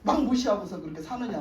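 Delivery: mildly acted telling-off; imitating a prophet's reproach; retold scolding. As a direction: take Saul to task, without shouting. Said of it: "막 야단을 치니까".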